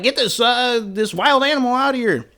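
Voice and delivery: high indignant demand; hammed-up disgust at the animal; squeaky mock-angry order; mock outrage. Curtis disgusted by the dog.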